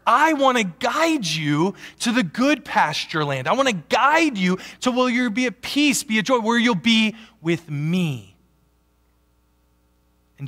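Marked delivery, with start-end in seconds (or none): 0.1-8.4 higher, louder voice of God the shepherd calling. Acted. Preacher voicing God inviting the congregation, raised and higher. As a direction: speak as a gentle shepherd inviting his flock. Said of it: "So God says, as the shepherd".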